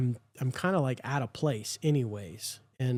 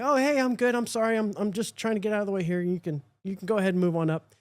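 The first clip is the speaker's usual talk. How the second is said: flustered apology; 5 semitones higher, faster than usual. Retold or imitated. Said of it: "And I'm like".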